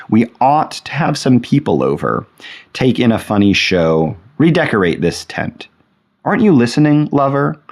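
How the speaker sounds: dramatized comic verse with lifted pitch on the pleas; playful poem reading. Acted. Lecturer reading a funnier poem as Bathsheba to her lover, playful recital. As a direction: read it as a lightly acted monologue. Reads a funny title poem.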